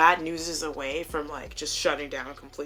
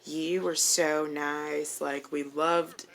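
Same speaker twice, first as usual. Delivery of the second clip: imitating grateful customers; 3 semitones lower, slower than usual. Quoting kind customers' praise.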